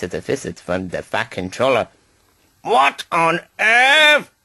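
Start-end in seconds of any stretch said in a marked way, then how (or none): 2.6-4.3 high, slow, astonished exclamation; crying out in surprise. A narrator's reading. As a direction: stretch it out high in disbelief. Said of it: "he cried".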